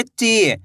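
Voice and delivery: ची with a long, stretched ee; ची, held long as a reading demo; drawn-out long vowel. Shown as a demonstration. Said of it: "खींच के करेंगे".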